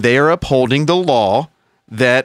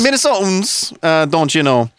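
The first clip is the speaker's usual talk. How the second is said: put-on Minnesota accent. Mimics Minnesotans with their catchphrase.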